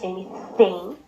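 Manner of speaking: "anything" with the th made between the teeth; tongue between teeth on the th of "anything". Shown as a demonstration. Teaching the listeners the English th, tongue between teeth. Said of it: "o T H que é entre os dentes".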